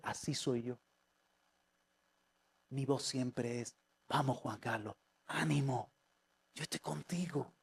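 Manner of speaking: soft, low, tender encouragement; Holy Spirit. Acted. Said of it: "me habla el Espíritu Santo y dice".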